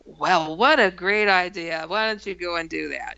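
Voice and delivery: mock praise, calling the bluff; smart aleck. Narrator dares the alien to project itself, smart-aleck. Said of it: "I'm being a smart aleck".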